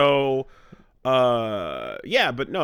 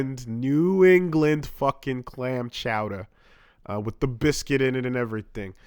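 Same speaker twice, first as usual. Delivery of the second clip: Boston accent. Shown as a demonstration. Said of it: "do you have to order it like that".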